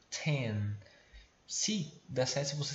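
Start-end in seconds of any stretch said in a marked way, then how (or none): 0.1-0.8 Ten with a puffed t; breathy t. Shown as a demonstration. Teacher showing the aspirated t, puff of air. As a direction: blow out the t of Ten. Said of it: "tenta falar soprando".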